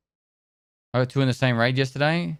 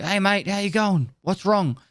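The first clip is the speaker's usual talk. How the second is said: higher, cheery mock medic; medic greeting patient; 7 semitones higher than usual. Trainee medic to pretend patient, higher cheery greeting. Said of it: "you walk up to the patient and you go".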